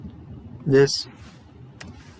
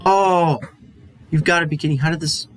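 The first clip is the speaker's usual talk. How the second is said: surprised; 4 semitones higher, 3 dB louder, much faster than usual. Real, not acted. Formula went wrong.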